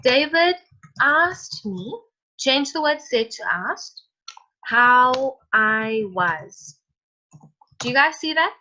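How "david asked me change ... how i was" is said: slow dictation. Shown as a demonstration. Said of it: "So you'd write it as".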